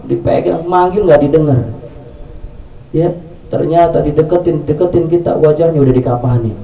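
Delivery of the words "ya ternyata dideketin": ordinary delivery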